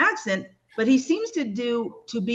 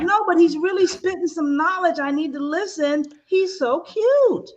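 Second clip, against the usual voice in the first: higher, gushing and lovestruck, drawing out the last cute; 5 semitones higher than usual. Retold or imitated. Admiring a cute tarot reader on YouTube, gushing and higher. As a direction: swoon over the cute tarot reader, slowing right down. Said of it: "And then I'm like".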